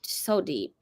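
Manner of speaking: trailing whisper. Real, not acted. Describing a stranger's thick accent, fading to a whisper. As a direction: let the words fall to a whisper.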